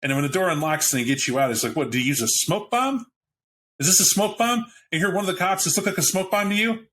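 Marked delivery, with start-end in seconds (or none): 1.8-4.6 high, rising puzzled cop voice; a baffled officer asking about a smoke bomb, pitched up; confused cop. Acted. GM voices cop freed from car. 5.6-6.9 high, fast, sarcastic retort; sarcastic cop. Acted.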